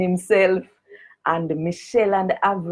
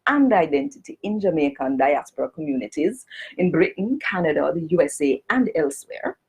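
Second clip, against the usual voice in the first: Jamaican Standard English; 3 semitones higher than usual. Shown as a demonstration. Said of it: "read it in Jamaican Standard English".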